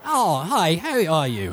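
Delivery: high, swooping doorman voice; high-pitched goofy greeting; Pokey. Acted. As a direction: search for a silly high character voice. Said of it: "almost got the voice".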